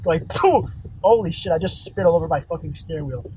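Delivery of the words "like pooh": imitated sneeze. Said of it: "he fucking sneezes".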